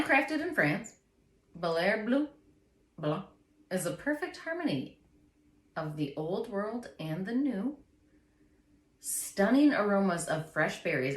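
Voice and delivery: measured ad-copy reading with pauses; label read-out. Acted. Reading the champagne label to a friend, ad-read style. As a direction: present it like a wine advert. Reads the wine label aloud.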